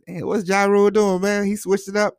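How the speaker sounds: high mocking quote voice; squeaky voice of the gossiping crowd; imitating people. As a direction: pitch way up as the crowd. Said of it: "And people was like".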